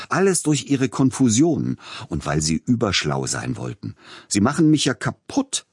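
angry shout. A narrator's reading. Composer screams at his scheming agent, furious shout. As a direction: blow up at him, voice cracking upward. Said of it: "schrie Peter Iljitsch ihn an".

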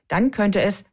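KÖNNTE stressed as the uncertain word. Real, not acted. Reporter cautioning listeners about the timetable plan, stress on "könnte". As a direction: lean on "könnte" to flag the doubt. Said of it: "mit der Betonung auf könnte".

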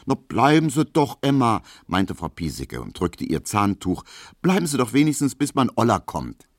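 high, chatty Berlin housewife; gossiping landlady. Acted. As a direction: spill the house gossip eagerly. Piesecke urges Emma to stay.

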